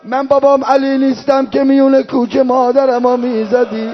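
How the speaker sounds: drawn-out wailing recitation; anguished plea. Acted. Hussein protesting attacks on Zeinab, anguished plea. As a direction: plead in sustained, chanted grief. Hussein pleads for family's honour.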